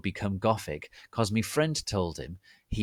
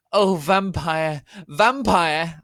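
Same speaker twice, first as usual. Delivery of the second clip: high, loud, slow ecstatic cry; screamed; 10 semitones higher, 10 dB louder, slower than usual. Acted. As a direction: cry his name over and over. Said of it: "I screamed".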